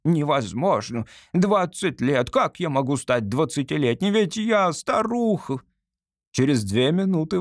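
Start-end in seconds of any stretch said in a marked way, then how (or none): 0.0-5.6 put-on high, slow disbelieving cry of an old woman; incredulous protest. Hypnotized old woman protesting to the doctor, incredulous. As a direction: refuse to believe it, pitch rising.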